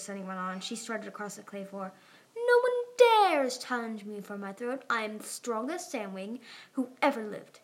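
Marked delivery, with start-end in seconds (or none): 2.3-7.6 loud proud opening, settling by the end; boastful pretend queen. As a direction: boast like a child playing queen. Sunny plays the boastful queen.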